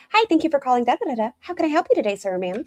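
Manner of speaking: high, chirpy phone-operator greeting; sweet scripted call-center voice; customer service voice. Retold or imitated. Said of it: "a customer service voice".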